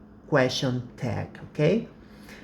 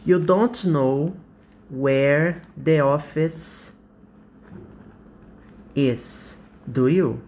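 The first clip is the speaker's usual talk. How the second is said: You don't know where the office is, slow and drawn out; teacher demo of a genuine tag question; slow real question; slower than usual. Shown as a demonstration. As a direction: ask it slowly, unsure. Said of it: "I'm not sure whether you know or not".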